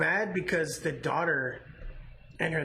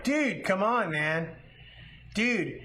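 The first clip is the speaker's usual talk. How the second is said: higher-pitched mock protest; exasperated pleading; 5 semitones higher, slower than usual. Audience scolding a man on his phone, imitated exasperation. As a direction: complain like fed-up moviegoers.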